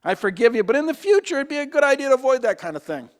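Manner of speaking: kindly suggest, no scolding; gentle voice. Pretend. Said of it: "Or do you hear a gentle voice?".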